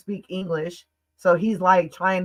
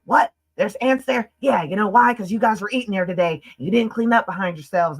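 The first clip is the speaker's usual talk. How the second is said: retold accusing rant, pitched up; flipping out; 3 semitones higher, 3 dB louder than usual. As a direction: imitate someone lightly blowing up. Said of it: "he flipped".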